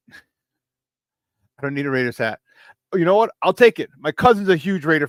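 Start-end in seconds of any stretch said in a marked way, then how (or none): 0.1-2.4 slow laughing repeat. Real, not acted. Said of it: "repeats the line laughing".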